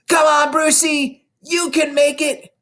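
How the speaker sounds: high, loud, slow cheer; a child in the crowd cheering the boy; shouted. A narrator's reading. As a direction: call out to urge him on. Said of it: "someone shouted".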